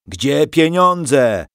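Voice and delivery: loud, high, very drawn-out roar. A narrator's reading. Soldier demands the money from the family, roaring. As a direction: roar the question, dragging each word. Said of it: "ryknął jeden".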